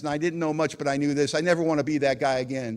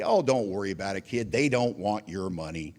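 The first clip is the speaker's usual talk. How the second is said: sponsor voice; 6 semitones lower than usual. Retold or imitated. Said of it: "As my sponsor explained to me".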